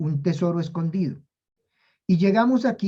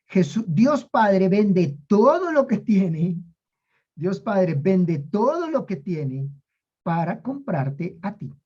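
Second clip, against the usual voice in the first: slow emphasis; slower than usual. Acted. Preacher dwells on the key line.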